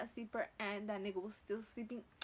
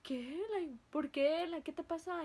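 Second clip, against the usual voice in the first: Mexican mother; 5 semitones higher than usual. Retold or imitated. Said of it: "Mexican mother".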